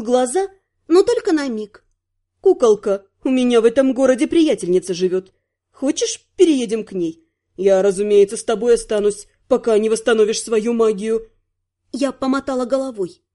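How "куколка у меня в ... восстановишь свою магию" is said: lightly voiced male stylist, lower pitch; a hint of a man's lower voice, offering help; stylist, caring. (заботливый стилист, чуть низким мужским голосом)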